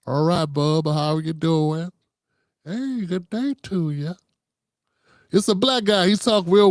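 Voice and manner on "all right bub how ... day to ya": TikTok guy's voice. Retold or imitated. Vlogger imitating the TikTok guy greeting strangers, friendly drawl. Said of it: "who talk like this".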